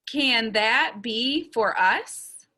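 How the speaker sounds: slow question, words spaced out; model for repeating. Shown as a demonstration. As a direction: lead a slow repeat-after-me. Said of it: "Say it again".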